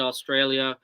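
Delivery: Australia with a light Australian accent, Aw-strail-ya. Real, not acted. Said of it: "every time I say Australia, I say it in the Australian accent".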